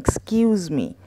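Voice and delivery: polite whispered excuse me. Shown as a demonstration. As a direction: whisper it so you don't disturb anyone. Politely breaking into a conversation.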